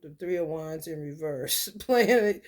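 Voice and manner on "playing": laughing. Real, not acted. Laughing while reading tarot card.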